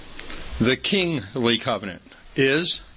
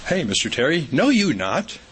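mock old-fashioned; 2 semitones higher than usual. Shown as a demonstration. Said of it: "we don't say".

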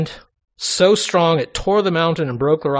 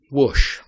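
imitated whoosh. Imitates fire flaring up.

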